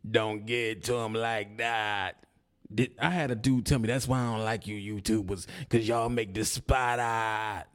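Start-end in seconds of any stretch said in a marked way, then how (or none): 3.9-7.7 Jigaboo voice. Retold or imitated. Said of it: "That's how Jigaboo sound".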